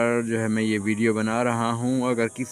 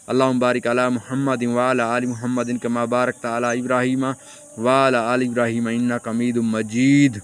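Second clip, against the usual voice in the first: steady, measured Arabic prayer recitation; recited prayer. Shown as a demonstration. Teacher reciting durood to viewers, steady prayer recitation. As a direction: intone the durood like in namaz.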